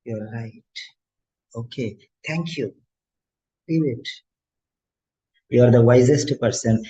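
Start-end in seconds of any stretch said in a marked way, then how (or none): 0.0-4.1 calm brush-off. Retold or imitated. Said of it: "I just say".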